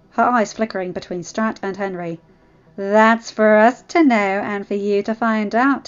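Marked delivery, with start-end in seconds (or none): 2.8-5.9 slow, taunting tease; smirking. Acted. Zevon withholding the answer from Claudine, smirking. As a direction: draw it out with a smirk. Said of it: "Zevon smirked".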